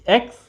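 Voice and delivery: एक्स cut off from the rest of the word; syllable alone. Shown as a demonstration. Teacher counting vowel sounds in excitement, syllable alone. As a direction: sound out एक्स as its own chunk. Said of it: "तो एक ई इधर sound आई".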